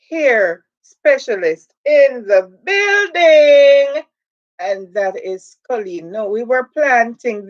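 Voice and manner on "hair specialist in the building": stretched-out shout of a hype host; slow, loud, crying out the news; hype announcement. Real, not acted. Host calling out to the stream that an expert arrived, slow loud hype.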